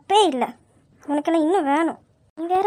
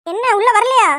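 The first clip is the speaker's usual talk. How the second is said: raised scolding call; higher, bossy holler; impatient yell; 4 semitones higher, 4 dB louder than usual. Acted. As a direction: shout for him to come in. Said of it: "வெளியே வந்து கத்துவா".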